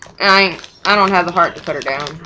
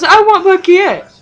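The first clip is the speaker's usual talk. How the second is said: high, slow, louder mock wail; imitating crying grandma; 11 semitones higher, 6 dB louder, slower than usual. Grandma crying for the dog, a high slow mock wail. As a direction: wail it like a sobbing old woman, slowly. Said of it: "she's all crying".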